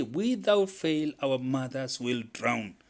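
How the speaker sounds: high, loud squealing insistence; emphatic squeal. A narrator's reading. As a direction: squeal each phrase as a vow. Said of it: "Squirrel squealed emphatically".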